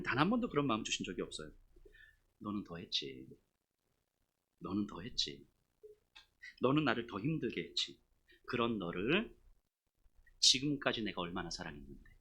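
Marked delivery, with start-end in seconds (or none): 2.4-12.1 low, soft, measured reproach; God's gentle voice. Acted. God answering the complaining pastor, low and gentle. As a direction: lower the voice and speak with loving gravity. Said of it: "이 마음을 주시는 거예요".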